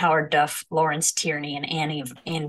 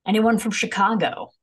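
higher, punchier comedian call to the crowd; emcee crowd work; 5 semitones higher, 3 dB louder than usual. Pretend. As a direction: pitch it up like a club emcee. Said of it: "Mm, crowd work".

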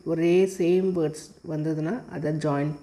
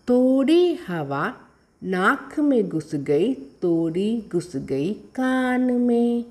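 poem recitation. Shown as a demonstration. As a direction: recite it phrase by phrase for pupils. Reads the poem to pupils. (ஏற்ற இறக்கத்துடன் கவிதை வாசிப்பு)

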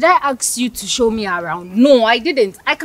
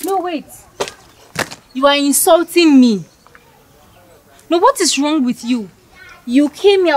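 indignant, raised and loud; a haughty girl furious at being called ill-mannered; offended outburst; 2 semitones higher, 3 dB louder than usual. Acted. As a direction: tear into him for insulting you. Heated quarrel, offended girl.

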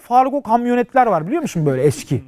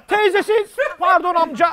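put-on lost little boy; 7 semitones higher than usual. Lost child apologizing to stranger.

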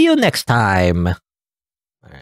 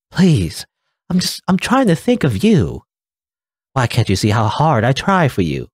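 higher, begging mom with a mild tearful edge; pleading mother; 5 semitones higher than usual. Acted. Mother begging her child, lightly voiced tearful plea. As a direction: beg your child to see your effort.

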